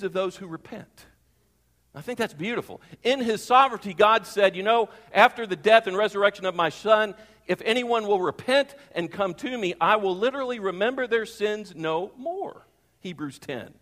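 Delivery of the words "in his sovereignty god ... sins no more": loud and lifted, proclaiming God's promise; booming preacher voice. Acted. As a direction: ring it out from the pulpit.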